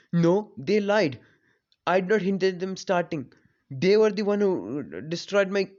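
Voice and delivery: indignant protest. Retold or imitated. Boy defending himself to angry parents, indignant protest. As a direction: plead innocence loudly and insistently.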